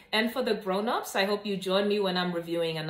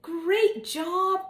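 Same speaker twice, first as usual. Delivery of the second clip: higher and louder, delighted teacher praise; cheerful praise; 10 semitones higher, 4 dB louder than usual. A narrator's reading. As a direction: cheer the kids on brightly. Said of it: "clapped Missus Patel".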